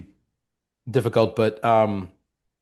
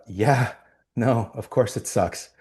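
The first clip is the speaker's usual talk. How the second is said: resigned. Retold or imitated. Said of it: "which is".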